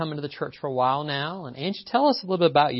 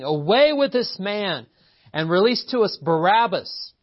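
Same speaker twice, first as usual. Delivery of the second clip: loud, high proclaimed crowd cry; declaimed shout from scripture; 7 semitones higher, 6 dB louder than usual. A narrator's reading. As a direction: read it as the crowd's demand. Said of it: "they all cried at once".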